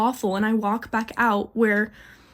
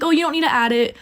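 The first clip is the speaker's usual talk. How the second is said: higher-pitched, helpful customer-service voice; super nice; 4 semitones higher than usual. Retold or imitated. Cashier correcting a customer's add-on, super nice. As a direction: politely let the customer know, a touch high. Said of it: "I'm being super nice".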